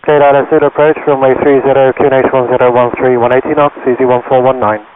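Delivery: tinny radio transmission; crackly cockpit radio voice; pilot over the radio. Real, not acted. Pilot reads back over radio.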